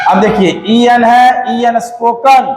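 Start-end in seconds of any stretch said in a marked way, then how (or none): 1.8-2.5 spoken said with a clear final "ən"; correct spoken. Shown as a demonstration. Teacher models spoken for students, clear "ən" ending. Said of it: "not spoken".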